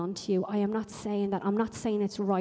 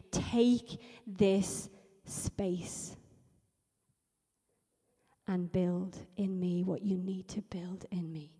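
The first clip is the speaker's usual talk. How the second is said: very slow, weighted surrender, fading to a near whisper; hushed prayer; 2 semitones lower, slower than usual. Acted. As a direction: draw out each word, then hush.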